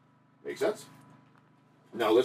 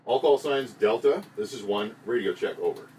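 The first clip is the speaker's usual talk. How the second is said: louder slow call over the radio; 4 dB louder than usual. Shown as a demonstration. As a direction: announce it clearly to every call sign. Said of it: "So again".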